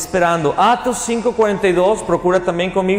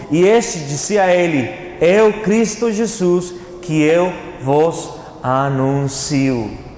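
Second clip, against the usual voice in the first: slow, deliberate Bible reading with drawn-out words; scripture reading; slower than usual. Acted. Preacher reading Paul's words to the congregation, slow scripture reading. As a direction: proclaim the verse slowly, stretching key words.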